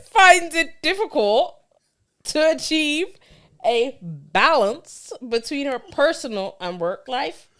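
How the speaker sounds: put-on Bajan accent, phrase by phrase; attempted Bajan accent. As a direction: read it haltingly in your best Bajan accent. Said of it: "in your best Bayesian accent".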